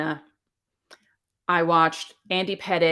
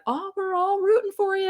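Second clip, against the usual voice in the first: waitress voice; 13 semitones higher than usual. Retold or imitated. Quoting the rest stop waitress.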